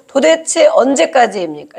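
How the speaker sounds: acted exasperated demand; arguing with God. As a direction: press the question, mildly indignant. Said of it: "이렇게 따지는 것이거든요". (따져 묻듯)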